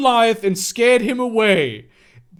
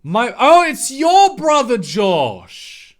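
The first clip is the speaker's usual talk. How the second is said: mock excitement; 2 semitones higher, 6 dB louder, slower than usual. Voicing excited character's line.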